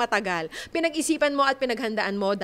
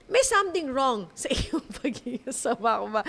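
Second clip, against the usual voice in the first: mock worried bride. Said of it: "Meron na tayong matutunogan na".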